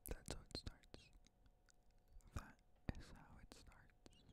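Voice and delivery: slow, hushed warning; a fading, ominous hush; ominous whisper. Acted. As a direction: whisper it like a prophecy.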